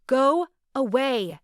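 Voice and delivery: high, loud, slow yell. Acted. Woman yelling through the closed door at her ex, loud. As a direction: shout it hard at the door. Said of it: "She was yelling through the closed door".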